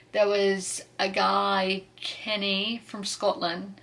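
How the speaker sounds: light, drawn-out mock Scottish accent; a hint of a put-on Scottish accent; playful Scottish accent. Vlogger introducing a book's Scottish crewman, playful Scottish accent. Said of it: "hope y'all enjoyed the accents".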